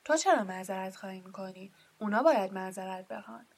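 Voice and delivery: loud, sharp scolding; indignant giant scolding the family; sharp retort. A narrator's reading. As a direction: snap back at him loudly. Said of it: "با لحن تندی گفت".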